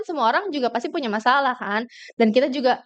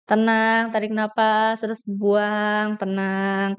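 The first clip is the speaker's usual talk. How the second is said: calm breathing guide; 3 semitones lower, much slower than usual. Shown as a demonstration. Coach showing the audience how to breathe calmly before speaking. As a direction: ease them into slow breaths. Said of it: "latihan atur pernapasan".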